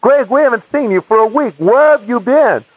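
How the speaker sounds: imitated cross-examining. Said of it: "They kept cross-examining me".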